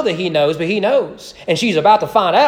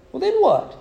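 mock questioning teacher; 13 semitones higher than usual. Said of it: "I said".

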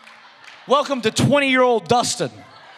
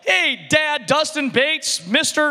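put-on child's voice; 5 semitones higher, slower than usual. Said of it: "like my son run up to me".

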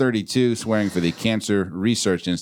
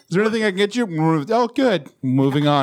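bright high waiter voice; chirpy server rushing past the table; fake-cheery waiter; 8 semitones higher, 3 dB louder than usual. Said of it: "I'm gonna wait till his mouth is full".

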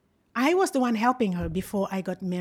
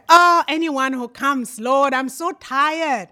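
weary plea; 2 semitones higher, 8 dB louder, slower than usual. Retold or imitated. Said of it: "I was tired".

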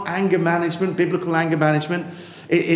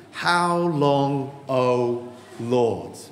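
slower, reverent reading of how long; reading the verse; 3 semitones lower, much slower than usual. Shown as a demonstration. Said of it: "look again at verse one".

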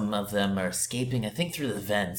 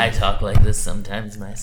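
Joker voice; 12 dB louder than usual. Acted. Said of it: "Are you gonna do this the whole time?".

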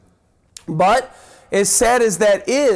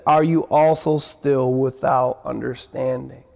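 lower, heavy, disappointed rebuke; frustrated Jesus; 8 semitones lower than usual. Retold or imitated. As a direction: let the disappointment weigh on each word. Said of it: "Can you hear in there the tone of the voice of Jesus?".

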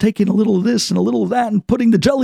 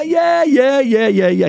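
quick, higher brush-off, not listening; dismissive yeahs; 5 semitones higher, slower than usual. Acted. Younger brother brushing off the mother's instructions, dismissive. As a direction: wave her off with yeah yeah.

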